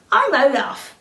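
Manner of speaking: lightly voiced cheerful snowman; a hint of a bright snowman; mildly voiced Olaf. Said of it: "the snowman said".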